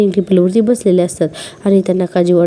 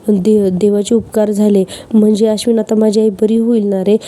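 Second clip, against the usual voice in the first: mock overacting. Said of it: "नाटकं करायला लागते".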